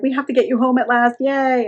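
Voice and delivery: imitating a cloying, pleased mother; overly sweet. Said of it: "really kind of overly sweet".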